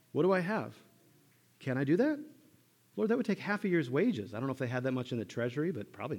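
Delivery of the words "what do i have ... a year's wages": high, loud, flustered worry; high loud mock panic; panicked disciples. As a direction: voice the disciples in a panic over money. Preacher voicing panicked disciples.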